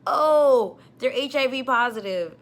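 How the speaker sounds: retold scream. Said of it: "the paramedic screams out".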